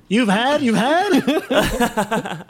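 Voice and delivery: lightly voiced posh interviewer; shocked reporters. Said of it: "All the B B C reporters were like".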